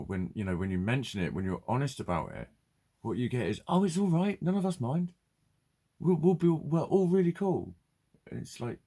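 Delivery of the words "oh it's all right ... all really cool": high, loud sing-song mock reassurance. Mimicking friends brushing off his anxiety, high and loud. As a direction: parrot their breezy comfort, high and bright. Mocking what people say to anxious.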